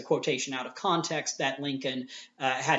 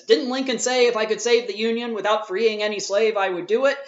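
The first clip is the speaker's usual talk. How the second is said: raised, louder mock challenge of the other debater; quoting the opponent; 5 semitones higher, 4 dB louder than usual. Teacher mimics the debater misquoting Lincoln, mock challenge. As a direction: throw the quote back as a gotcha, higher and louder. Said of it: "So the person says".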